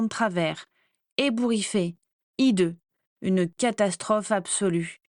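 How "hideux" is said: ordinary delivery, nothing marked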